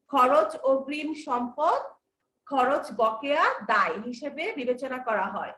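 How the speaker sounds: slow, word by word for notes; slow dictation. Shown as a demonstration. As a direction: spell it out slowly so they can write. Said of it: "খাতায় star চিহ্ন দিয়ে লিখে রাখো". (ধীরে ধীরে লিখিয়ে বলা)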